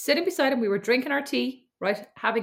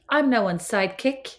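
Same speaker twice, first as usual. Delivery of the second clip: mock elocution-class delivery; speech and drama. Sister trying out a catchphrase, stagey speech-and-drama delivery. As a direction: recite it like a drama pupil. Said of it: "like you're doing speech and drama".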